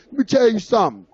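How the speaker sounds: imitating a judge going off on him; retold angry rant. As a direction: lay down the law as an angry judge. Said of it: "she just started going off on me".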